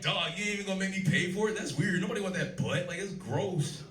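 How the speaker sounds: mock appalled reply to his friend; incredulous reply. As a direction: push back like it's absurd.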